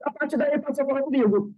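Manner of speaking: ordinary delivery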